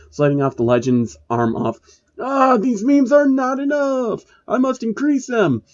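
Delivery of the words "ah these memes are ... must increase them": villain powering up. A narrator's reading. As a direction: strain it out like a villain losing control.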